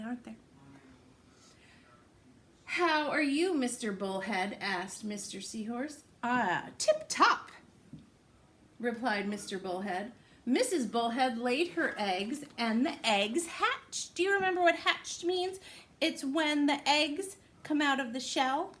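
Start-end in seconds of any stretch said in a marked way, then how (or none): 2.6-14.1 lively, sing-song storybook reading; picture-book read-aloud voice; reading to children. Acted. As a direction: read it to little ones with big rises.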